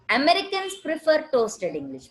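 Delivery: Americans pitched high as the key word; stress on Americans. Shown as a demonstration. Teacher shows class the active example, stressing Americans. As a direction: put the weight on "Americans" at the start. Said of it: "We are stressing here on".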